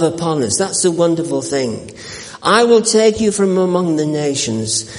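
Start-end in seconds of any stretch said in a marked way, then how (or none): 2.4-4.8 solemn scripture reading. Acted. Preacher reads Ezekiel to the congregation, solemn and measured. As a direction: read the prophecy to the congregation with gravity.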